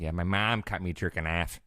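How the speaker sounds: flat Chicago vowels; Chicago accent. Retold or imitated. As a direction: do a Midwest mom accent. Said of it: "I was like".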